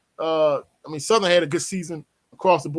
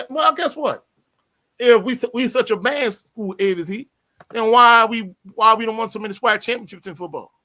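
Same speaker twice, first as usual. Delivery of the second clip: higher and louder, pushing back hard; fired-up comeback; 5 semitones higher, 5 dB louder than usual. Real, not acted. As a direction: rise up and fire back at the heckler. Heated comeback at a chat comment.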